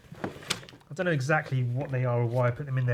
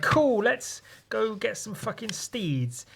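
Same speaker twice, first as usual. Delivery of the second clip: high, slow, mock-cheerful girl voice; perky heroine; 9 semitones higher than usual. Retelling his comic, heroine suggests getting steeds, high and slow. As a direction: lift it up high and drawn out. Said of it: "she's like".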